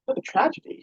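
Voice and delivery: playful mock tragedy; mock lament. A narrator's reading. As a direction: lament it theatrically while grinning. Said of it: "she lamented with a grin".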